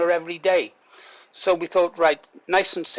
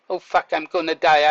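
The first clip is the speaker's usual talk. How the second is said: a sudden alarmed outburst of panic; panicked thought; 4 dB louder than usual. Shown as a demonstration. Man recalling choking, voicing the panic he didn't feel, alarmed. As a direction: blurt it out as if truly scared. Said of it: "but I wasn't thinking".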